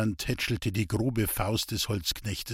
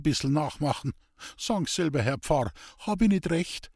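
higher, eager dialect voice, defensive; earnest simple woodcutter; 5 semitones higher than usual. Acted. Hans-Peter defending his street preaching to the priest, higher and earnest. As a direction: plead your case like a rough honest man.

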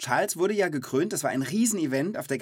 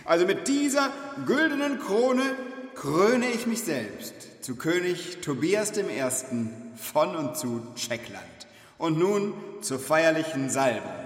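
pompous king; 3 semitones higher, slower than usual. Pretend. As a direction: proclaim it like a vain king. Mock ceremony, crowning himself. (pompöser König)

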